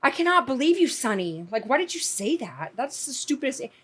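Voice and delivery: high scolding yell at the TV; mock outraged viewer. Family member scolding a Family Feud panelist, mock outrage. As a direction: pretend to scold a game-show contestant. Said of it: "she would be like".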